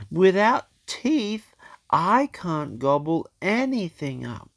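put-on lightly high old shark; a hint of worried grandpa. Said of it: "said Grandpa Shark".

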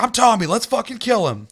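high, loud mock war cry; pumped up. Player back as Tommy on the walkie-talkie, pumped up. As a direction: imitate an over-hyped player announcing himself. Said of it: "That guy was so fucking pumped".

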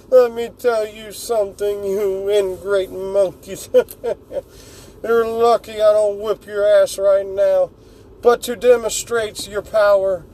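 a hint of a smug tyrant taunting his enemies; smirking Frieza. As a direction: sneer down at the monkeys, amused. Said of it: "replies, smirking".

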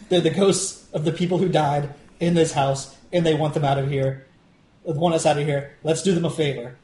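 earnest, straightforward delivery with level pitch; genuine. Acted. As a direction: say it seriously, with no sarcasm. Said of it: "I would be genuine about it".

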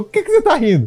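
mock indignation. Jealous date challenges his laughing.

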